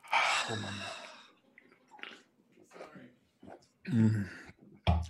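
talking through a mouthful; words round a bite of food; mouth full. Real, not acted. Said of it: "I got something in my mouth".

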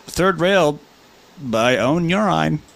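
slow voiceover announcement. Acted. Host returning to the viewer's comment, slow voiceover voice. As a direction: draw out each phrase like a voiceover. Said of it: "I'll read in a voiceover voice".

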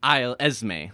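"Isle Esme" said as eye-l ez-may; corrected pronunciation. Shown as a demonstration.

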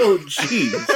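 aghast, sickened groan; appalled and queasy; shocked disgust. Real, not acted. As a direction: say it like it turns your stomach. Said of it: "sounding extremely shocked and saying, "Oh, geez," as if you wanted to vomit".

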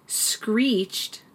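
"screeched" slow as a single syllable; one-syllable word, drawn out. Shown as a demonstration. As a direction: stretch "screeched" out in one beat. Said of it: "It is one syllable".

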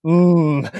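a mock anxious mm; concerned moan. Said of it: "concerned moan".

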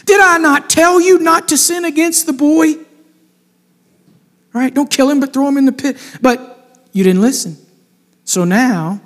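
lightly voiced Reuben reproaching them; Reuben scolding. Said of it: "And Reuben answered them".

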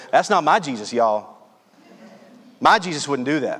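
lightly imitated Louisiana Southern accent. Preacher mimicking churchgoers who disown that Jesus, light Southern accent. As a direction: put on a touch of Southern accent. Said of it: "I just hear that with a Southern accent".

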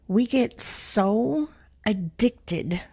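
breathy slow whisper for emphasis. Shown as a demonstration. Speaker whispering a point to her listeners, slow and hushed. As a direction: whisper it slowly to the audience. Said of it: "I'm gonna say that again".

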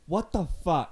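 mocking her crying pitch, half-sung; matching her wail. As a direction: copy the pitch of her wailing, half in jest. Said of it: "try to match your pitch".

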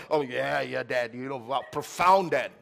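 a hint of a teen brushing off her father; mock bored kid. Pastor imitating his children humouring him, lightly mock-impressed.

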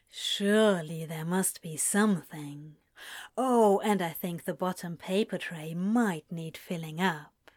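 Crowley teasing Aziraphale over the phone. Acted. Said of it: "Crowley teased".

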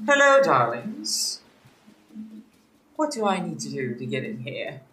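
lightly camp queen flirting at the door; campy drag queen. Acted. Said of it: "and I'm gonna be like".

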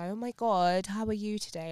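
mock a very proper English greeting; posh British accent. Co-host mocking Americans' idea of Brits, posh British accent. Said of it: "Like, we talk posh".

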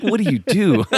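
high, loud, laughing question; laughing quote. Retold or imitated. Fellow trainee amazed by the joke answer, retold laughing. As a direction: retell the question through laughter.

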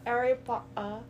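lightly imitated British accent; mock British accent. Mimicking partner's Harry Potter, mock British accent. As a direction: echo it in British, swallowing the middle T. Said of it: "She's gone British".

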